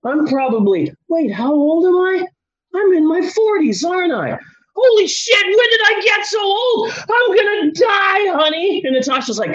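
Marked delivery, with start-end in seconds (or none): 1.1-8.8 high, loud, panicked yelling; a high-pitched panicked shout to his wife; mock panic. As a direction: work yourself into a frenzy about getting old.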